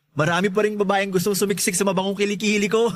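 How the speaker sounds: bragging with a laugh at the end; laughing boast. Acted. Boasting, laughs at own joke. (nagyayabang habang tumatawa)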